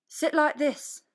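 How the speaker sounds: high, loud, bossy hen voice; chickens instructing. A narrator's reading. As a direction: hens coaching the rabbit. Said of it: "they said".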